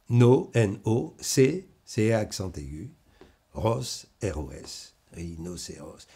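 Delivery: slow syllable-by-syllable spelling; sounding out words. Shown as a demonstration. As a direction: break it into syllables, spelling letters. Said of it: "on la prononce dans la tête".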